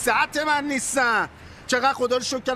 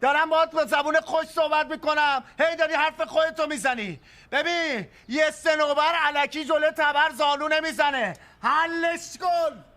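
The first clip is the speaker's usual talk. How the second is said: threatening; 4 semitones higher than usual. Acted. Threatening the moneylender.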